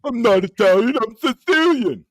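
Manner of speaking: put-on loud, high stoner Sicilian accent. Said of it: "That's Bonesy".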